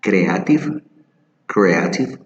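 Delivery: creative said as kreativ, E swallowed; wrong creative. Shown as a demonstration. Teacher imitates the common mistake: creative as kreativ. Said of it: "many people say".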